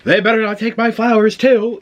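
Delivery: loud, high, indignant sass; wig-snatching girl. Acted. Friend sounding off about her flowers, loud and sassy. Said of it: "the wig snatching girl".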